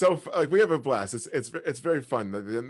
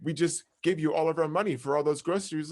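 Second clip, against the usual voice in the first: indignant disbelief; 6 semitones higher, faster than usual. Retold or imitated. Protesting the niece's scam.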